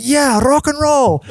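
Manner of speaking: rolled R in "rock and roll", high and slow; hammed-up rocker "rock and roll", rolled r. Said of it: "I don't know why I rolled my R there".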